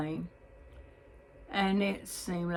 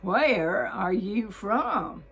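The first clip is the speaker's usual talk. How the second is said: slow and louder, leaning hard on where; disbelieving question; 5 dB louder, much slower than usual. Retold or imitated. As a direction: stretch it out in astonishment, weighting Where. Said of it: "asked in a voice of disbelief".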